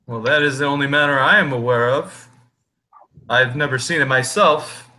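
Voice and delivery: talking tree. Acted. GM voices the tree.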